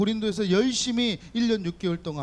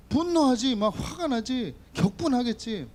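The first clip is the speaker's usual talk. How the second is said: mock anger; 5 semitones higher than usual. Pastor picturing his girlfriend kissing someone, mock angry outburst. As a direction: act out the jealous boyfriend's flare-up.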